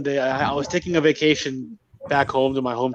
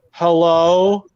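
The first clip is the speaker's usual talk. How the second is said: drawn-out, slightly louder hello; calling out; 4 dB louder than usual. Retold or imitated. Wife calls out into the house, calling out. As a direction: call it out long into the house.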